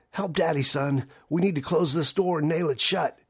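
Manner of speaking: tearful, breathless plea. Acted. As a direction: beg his son through tears. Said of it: "short, sharp breaths in a voice thick with tears".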